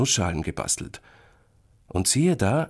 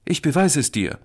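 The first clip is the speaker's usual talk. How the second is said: put-on high, loud childish insistence; angry little boy; 9 semitones higher, 5 dB louder than usual. A narrator's reading. Little brother sets out to prove himself, cross. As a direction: insist crossly in a small boy's voice. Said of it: "wenn er zornig ist".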